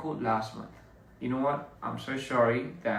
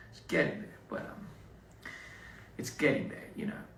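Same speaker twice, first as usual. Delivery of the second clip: muttered to self; 5 semitones lower, 5 dB quieter than usual. Real, not acted. Trailing off about Sukuna hair.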